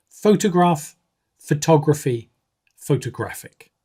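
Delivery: each word's stress shown clearly; word stress demo. Shown as a demonstration. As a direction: model the shifting stress across the three words. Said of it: "let's look at these three words".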